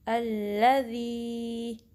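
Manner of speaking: अल्लज़ी with ज़ी as a soft tongue-tip-on-teeth zaal, slow. Shown as a demonstration. Teacher models the correct zaal in अल्लज़ी. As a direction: recite अल्लज़ी slowly with a gentle zaal. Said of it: "ज़ाल अदा होगा".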